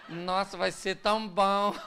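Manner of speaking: sarcastic fake delight; husband faking joy at mother-in-law's visit; ironic. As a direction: say it meaning the opposite. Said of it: "Não seja irônico".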